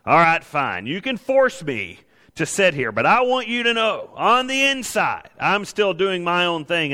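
mock sulky child, pitched high and drawn out; high, slow, sulky defiance as if talking back to God; defiant grudging voice. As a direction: act the stubborn kid who obeys but won't give in. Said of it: "That's how we do God sometimes".

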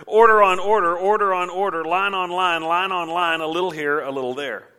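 mocking singsong, high and loud at first, falling away; mimicking a sermon. Leaders mimicking Isaiah's sermon back at him, mocking singsong. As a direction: parrot it in repetitive, even beats. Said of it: "then they mimic his sermon".

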